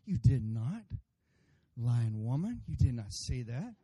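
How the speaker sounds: lightly acted indignant husband; mock denial. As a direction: deny it firmly, questioning lift at the end. Husband denies it in acted quarrel.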